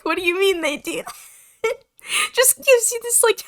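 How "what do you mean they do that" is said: quick, baffled question; confused. Acted. Player voicing Cass baffled by the signing, confused. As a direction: ask in puzzled disbelief. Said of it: "she's confused".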